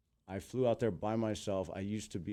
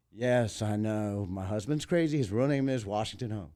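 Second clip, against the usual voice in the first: retold wifely explanation, raised voice; 5 dB louder than usual. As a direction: play the exasperated wife explaining her husband. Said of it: "she goes".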